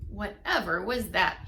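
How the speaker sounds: startled badger at a thud; startled cry. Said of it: "he cried".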